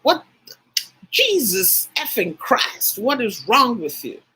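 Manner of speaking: imitating a shocked outburst; shocked exclamation. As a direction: act out someone appalled, stretching the oath. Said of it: "Someone is shocked and they say".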